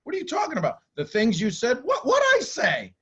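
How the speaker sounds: shocked high squeaky what; confused disbelief. Retold or imitated. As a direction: play it baffled and way up high. Acted argument, confused denial.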